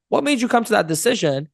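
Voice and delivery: curious, caring question; right tonality. Shown as a demonstration. Coach addressing someone who made a mistake, curious. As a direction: ask without attacking. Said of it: "if I go to them and go".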